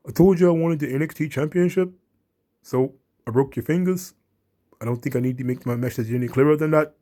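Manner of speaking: menacing threat in a mildly put-on voice; Pete Dunne. Retelling Pete Dunne's promo to Finn Balor, lightly voiced menace. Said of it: "he's, he's like".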